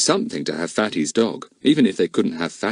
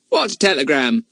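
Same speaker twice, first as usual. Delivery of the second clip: innocent; 6 semitones higher, 3 dB louder than usual. A narrator's reading. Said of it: "asked Fatty innocently".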